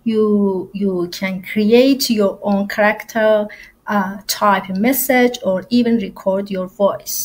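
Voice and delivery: slow, careful teacher's welcome in English; recorded class welcome. Acted. Teacher records a welcome message for her class, slow and clear. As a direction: greet the students slowly and clearly, like a friendly English teacher.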